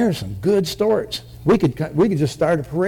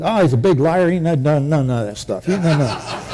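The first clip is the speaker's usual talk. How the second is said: laughing owner. Acted. Joke punchline, owner laughing.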